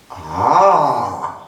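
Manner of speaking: drawn-out Ah of surprise; wondering ah. Shown as a demonstration. Teacher demonstrating surprise, wondering Ah. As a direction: let Ah rise in amazement. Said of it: "Ausdruck der Verwunderung".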